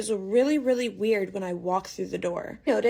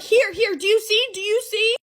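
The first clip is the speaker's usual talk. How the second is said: high, loud, desperate pleading; much higher and louder, urgent; frantic insisting; 11 semitones higher, 4 dB louder than usual. Retold or imitated. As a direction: shove the photos at him. Frantically showing him the photos.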